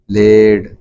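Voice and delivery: "played" in one drawn-out syllable, final d; correct played. Shown as a demonstration. Teacher repeating for learners, played as one syllable. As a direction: repeat "played" with no separate -ed vowel.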